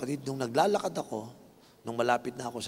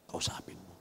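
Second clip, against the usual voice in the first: voice of the Lord; 7 semitones lower, 15 dB quieter than usual. Retold or imitated. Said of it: "kinausap siya ng Panginoon".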